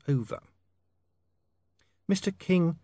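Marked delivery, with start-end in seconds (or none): 2.1-2.8 urging. A narrator's reading. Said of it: "to break the thoughtful silence".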